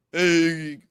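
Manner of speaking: loud, drawn-out "hey" in a botched imitation; Grillo. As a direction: try someone else's greeting and give up. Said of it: "I can't do a Grillo impression".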